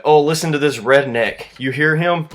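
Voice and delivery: mock a heckling lobby kid, drawing out the ohs; exaggerated taunting player voice; jeering gamer kids. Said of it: "twelve-year-olds barking in my ear".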